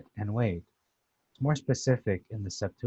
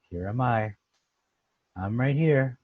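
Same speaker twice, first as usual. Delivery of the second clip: sarcastic; 3 semitones higher, 3 dB louder than usual. Shown as a demonstration. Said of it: "Sounds a little sarcastic too".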